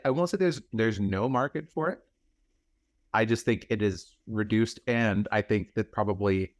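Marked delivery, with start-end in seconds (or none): 0.1-2.0 much higher, insistent repeat of the point; higher emphatic restatement. Real, not acted. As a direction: restate it pitched up, driving it home. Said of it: "And like I said".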